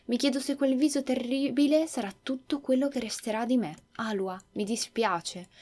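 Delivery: lightly acted, subdued farewell; dying boy, resigned. Emil apologises to his sister as he dies, sorrowful. Dying boy's inner monologue.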